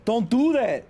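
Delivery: high shriek of real fright; jump-scared yelling; startled scream. Real, not acted. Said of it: "It was scary".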